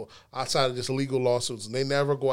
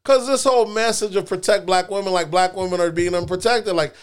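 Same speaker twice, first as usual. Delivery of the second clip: raised, heated voice, pushing the point hard; heated rant; 4 semitones higher, 6 dB louder than usual. Real, not acted. Podcast host fired up arguing with friends, louder heated rant. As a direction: argue it louder and higher, fired up.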